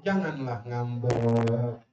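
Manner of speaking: cajole a sulking wife; a hint of a husband sweet-talking; coaxing husband. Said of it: "Suaminya yang ngerayu".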